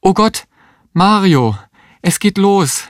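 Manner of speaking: very high-pitched, alarmed calling out; urgent cry. A narrator's reading. Woman in labour alerts her partner Mario, urgent cry. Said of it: "rief die Existenzialistin".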